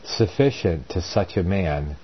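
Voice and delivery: deliberate Bible reading in short, weighted phrases; formal, measured pulpit reading; scripture reading. A narrator's reading. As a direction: read the epistle aloud with firm emphasis. Reads scripture aloud amid own commentary.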